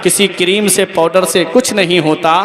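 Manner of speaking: declaimed devotional couplets; poem recitation. Acted. Preacher closing with verses urging prayer, poetic recitation. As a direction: recite in measured rhyming phrases.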